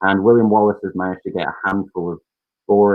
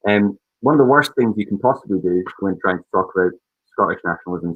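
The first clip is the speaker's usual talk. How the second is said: muffled. Real, not acted. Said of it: "sorry if I'm muffled".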